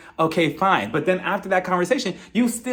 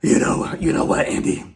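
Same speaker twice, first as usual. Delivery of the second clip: mock fake crying; 3 semitones lower than usual. Mocking Marlo faking tears in front of Andy, halting and whispery. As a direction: put on a badly faked cry, dragging the words out. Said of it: "she was just like".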